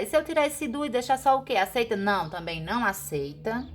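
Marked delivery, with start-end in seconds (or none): 0.0-2.0 higher, fast pupil question; a pupil testing the rule; student asking. Retold or imitated. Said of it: "se você disser".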